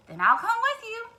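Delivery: high loud duck; eager duck. Acted. Duck decides to join the hen. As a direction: jump in to join. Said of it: "said Ducky Lucky".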